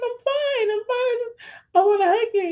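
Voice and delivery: very high, squeaky insistence; retold strained, high-pitched "fine"; unconvincing reassurance. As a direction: act out barely holding it together.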